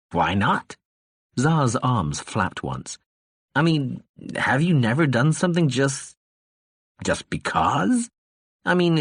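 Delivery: put-on slurred, rambling drunk; lightly voiced tipsy ambassador; drunk man voice. Narrator voices drunk Tsar.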